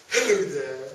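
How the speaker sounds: slow talking tree voice. Acted.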